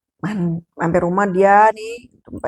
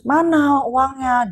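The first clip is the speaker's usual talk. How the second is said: higher, slow, pressing demand; demanding question; 6 semitones higher, much slower than usual. Retold or imitated. Wife presses her husband about the missing money, slowly. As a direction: insist on the money.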